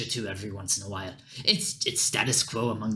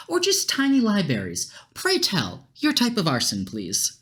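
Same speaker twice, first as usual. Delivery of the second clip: higher, quick, theatrical questioning voice; eager scheming character; 8 semitones higher than usual. Acted. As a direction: savor every word about arson like a villain. NPC eagerly questioning about arson.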